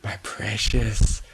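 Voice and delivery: slowing to a drawn-out possessive croon; cling to it greedily. Acted. Possessive clutching of the bunny.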